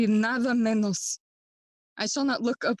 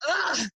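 short, pitched-up "ah" of despair; anguished groan; 4 semitones higher than usual. Acted. Hamlet alone lamenting his life, anguished groan. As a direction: let out an exasperated cry.

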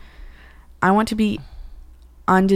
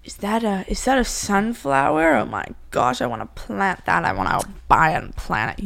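mocking mom. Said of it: "You freak out".

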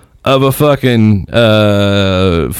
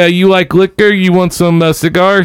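higher hustler pitch; lightly voiced Bahamian hustler; Bahamian seller; 7 semitones higher than usual. Street seller offering liquor and cigars, light Bahamian accent. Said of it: "He's like".

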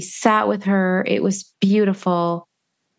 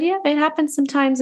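rabbi's easy reassurance; 8 semitones higher, faster than usual. Retold or imitated. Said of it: "He said".

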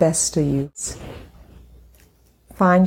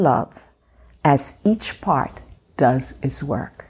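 scripture reading. Real, not acted. Reads the scripture aloud.

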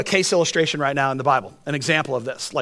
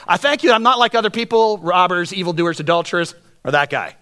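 pompous Pharisee; 2 semitones higher, 3 dB louder than usual. Retold or imitated. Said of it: "that's really gutsy".

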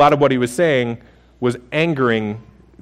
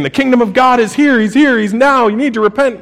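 higher and louder, fervent proclaiming; crazy preacher; 8 semitones higher, 4 dB louder than usual. Retold or imitated. Rulers hear Jesus as crazy, fervent loud proclaiming. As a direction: sell it like a wild street prophet. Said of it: "here's this guy saying".

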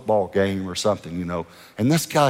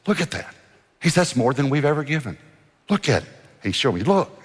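excited pastor; 6 semitones higher than usual. Retold or imitated. Excited pastor shows the check.

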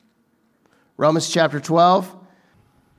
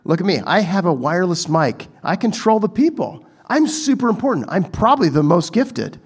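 mock boastful pastor. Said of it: "like, super all hyped up".

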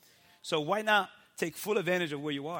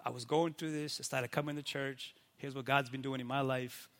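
low-key, softer conversational sharing; talking person to person; 4 semitones lower, 5 dB quieter than usual. Shown as a demonstration. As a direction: share it honestly, without any church performance. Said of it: "Talk like you would talk to a person".

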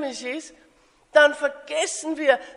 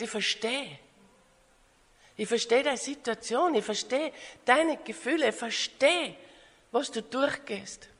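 softly spoken reassurance; gentle understanding; 6 dB quieter than usual. Acted. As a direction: reassure with quiet empathy. Jesus reassures, repeating that he understands. (sanft und verständnisvoll)

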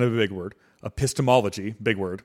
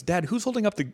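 put-on much higher, eager child's voice; kid asking dad; 11 semitones higher than usual. Curious son asking his dad again, high childlike voice. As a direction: pipe up like a curious little boy. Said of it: "Comes back the next day and says".

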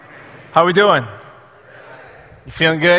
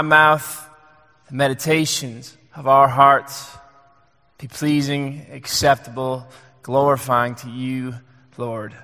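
prayer; 3 semitones lower than usual. Acted. Pastor praying before the sermon, hushed and reverent.

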